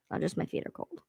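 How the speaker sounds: unvoiced whispered echo. Real, not acted. Complaining to herself about cold feet, whispered. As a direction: breathe it as a private aside.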